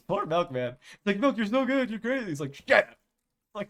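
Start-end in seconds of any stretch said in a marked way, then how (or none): 1.2-2.3 high-pitched acted praise; playfully high flattering voice; gushing mock compliment. 2.5-3.0 loud, raised-pitch retort; sudden loud acted snap; mock angry outburst. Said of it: "He gets really angry when".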